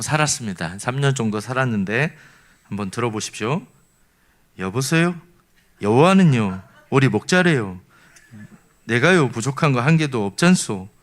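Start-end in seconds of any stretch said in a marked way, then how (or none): 4.6-10.9 Gangwon dialect. Shown as a demonstration. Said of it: "강원도 이제 강릉 버전인데요".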